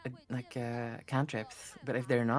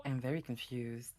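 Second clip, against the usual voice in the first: whispering; 5 dB quieter than usual. Real, not acted. Baffled aside after odd play.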